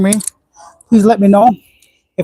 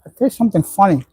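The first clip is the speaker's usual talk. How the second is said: words around a mouthful of food; chewing while talking. Real, not acted. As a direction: talk while still chewing. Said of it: "You don't wanna hear me chewing".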